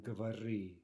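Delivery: говори stressed on the final ри; end stress. Shown as a demonstration. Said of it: "the stress pattern also affects the".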